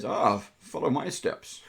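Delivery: put-on character accent, lightly done; put-on accent for Hogan. Game master voicing Hogan to the players, put-on accent. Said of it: "I did that accent".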